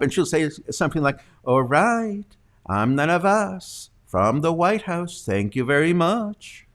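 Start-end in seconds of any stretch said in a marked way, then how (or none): 1.4-5.2 higher, slower, skeptical anchor sign-off; upward twang. Retold or imitated. Anchor signs off a reporter on crazy news: mock upward twang. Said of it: "her twang goes up". 5.2-6.6 upward twang. Retold or imitated. Anchor thanks a correspondent about crazy news: upward mock twang. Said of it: "her twang goes up".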